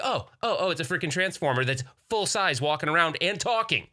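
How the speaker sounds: high, breathless awe; awed excitement. Retold or imitated. Dad seeing a giant Transformer, high and awestruck. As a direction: gasp like a kid meeting a giant robot.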